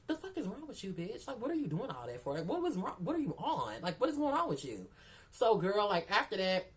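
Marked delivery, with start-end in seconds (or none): 0.1-4.9 inner voice scolding. Retold or imitated. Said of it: "was telling myself out here in my head".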